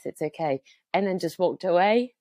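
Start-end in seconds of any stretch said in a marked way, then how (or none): 0.0-0.6 calm, kind reassurance with a falling close; reassuring stranger. Retold or imitated. Kind stranger reassuring a stressed mother, calm and sincere. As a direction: settle her down gently. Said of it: "Oh, I'm getting emotional".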